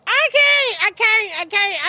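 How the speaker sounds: high, loud, breaking into laughter; can barely talk for laughing. Real, not acted. Laughing too hard to speak.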